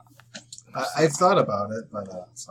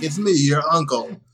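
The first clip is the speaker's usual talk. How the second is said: quoted voice; 6 semitones higher, 8 dB louder than usual. Retold or imitated. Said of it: "He's like".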